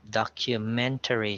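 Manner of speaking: "documentary" as dok-yu-MEN-tuh-ree; "documentary" with the weight on its third syllable; stress on third syllable. Shown as a demonstration. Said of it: "stress is on the third syllable".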